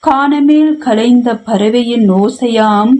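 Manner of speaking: measured verse reading, held notes on line ends; poem recitation. Acted. Poet reciting a venba to an online poetry gathering, formal recitation.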